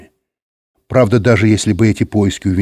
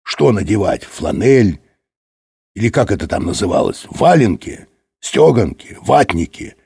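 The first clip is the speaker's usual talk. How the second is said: scornful questioning, item by item; mildly affronted, querying each garment; indignant. A narrator's reading. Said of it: "возмутился Юрковский". (возмущённо перечисляя)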